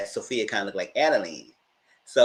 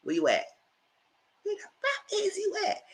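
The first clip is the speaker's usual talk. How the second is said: high strained yell building at the end; shrieking demand on the phone; angry yell; 12 semitones higher, 6 dB quieter than usual. Retold or imitated. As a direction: scream at the husband in a fury. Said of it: "She said".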